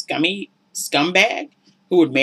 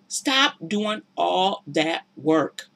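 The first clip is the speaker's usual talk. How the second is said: slow, softer earnest appeal; slow tender plea; 4 dB quieter, much slower than usual. Real, not acted. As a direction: gently urge them to stop. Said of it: "slowed repeat of the advice".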